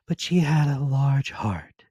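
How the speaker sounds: slow, weighty spirit voice; solemn ghost. Acted. Ghost reminds Scrooge of his sister, slow solemn voice. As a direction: lay each word down gravely.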